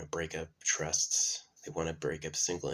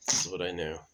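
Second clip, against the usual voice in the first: robot voice. Retold or imitated. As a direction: beep boop robot voice. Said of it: "It should just be like".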